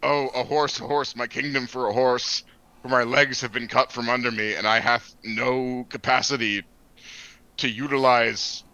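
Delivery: mock tragic lament; overacted dying Shakespearean actor; hammed-up death scene. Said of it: "and I'm like".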